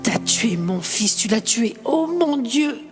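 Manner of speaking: high, frantic blaming cry; anguished accusing shout. Acted. Marc screaming at the mother over his dead son. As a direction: hurl the blame at her. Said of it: "hurle Marc".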